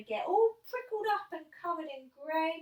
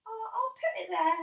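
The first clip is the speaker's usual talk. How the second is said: higher, louder careless admission; blurted admission; 9 semitones higher, 6 dB louder than usual. Retold or imitated. Boy admitting the twig, higher and blurted. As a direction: admit it without thinking. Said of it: "So I say".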